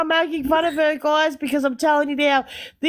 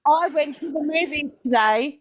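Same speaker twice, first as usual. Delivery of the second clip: natural Australian model phrase for copying; Australian accent. Shown as a demonstration. Australian giving friend a line to copy, Australian accent. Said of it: "in your best Australian accent".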